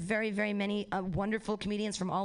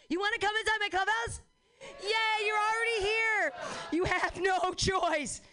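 high, slowing, sinister invitation; creepy host voice; 10 semitones higher than usual. Acted. Host welcoming the trapped audience, high creepy tease. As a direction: lure them in, a little menacing.

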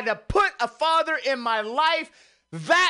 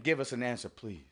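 much softer, lower, dying away; fading plea; 12 semitones lower, 9 dB quieter, faster than usual. Acted. Repeating the prayer to the Lord, fading to a hush. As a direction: let the plea fall to almost nothing.

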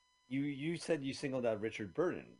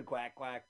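duck impression. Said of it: "Did you hear my duck impression?".

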